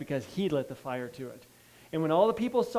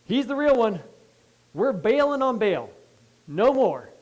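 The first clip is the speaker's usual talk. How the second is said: higher and louder, a crowd turning to God; excited crowd shout; 5 semitones higher, 6 dB louder than usual. Retold or imitated. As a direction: shout it like the whole crowd just switched sides. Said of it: "everybody's like".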